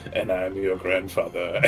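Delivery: muttered low and quiet aside; under his breath. Acted. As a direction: say it softly, just for her to hear. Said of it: "I say under my breath".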